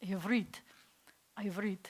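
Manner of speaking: "ivrit" stressed on the closing "rit"; teacher's demo of "ivrit", weight on "rit"; final-syllable stress. Shown as a demonstration. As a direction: land the accent on the end of "ivrit". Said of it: "accent's gonna be on the end".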